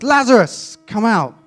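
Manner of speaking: loud, high shout to summon someone; commanding call. Acted. Jesus calls the dead man from the tomb, loud commanding shout. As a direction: call it out at full force, pitched high.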